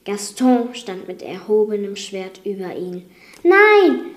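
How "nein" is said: high, loud cry of horror; shouted, drawn-out alarm; horrified scream. A narrator's reading. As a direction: cry out aghast. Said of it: "schrie Belle entsetzt".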